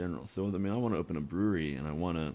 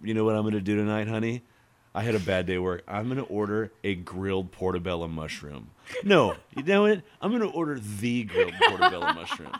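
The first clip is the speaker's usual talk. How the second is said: mock customer; 4 dB louder than usual. Voicing the customer to her husband.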